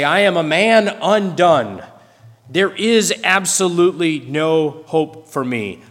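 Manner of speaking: lightly voiced archaic lament, stressing man; a hint of solemn King James reading; old translation voice. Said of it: "Some of the older translations say".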